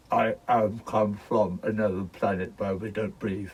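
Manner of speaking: slow, lightly voiced alien robot; mock robot from another planet. Masked man at reception playing a slow mock robot. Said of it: "another probably masked up robot".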